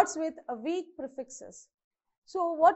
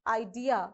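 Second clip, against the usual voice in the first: iDEA, the DEA carrying the stress; stress on second syllable; 4 semitones lower than usual. Shown as a demonstration. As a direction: model Idea with weight on DEA. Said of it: "on the second syllable".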